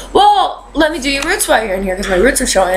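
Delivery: high breezy stylist voice, rushed; lightly voiced chatty hairdresser; imitating the stylist. Stylist quoted in story.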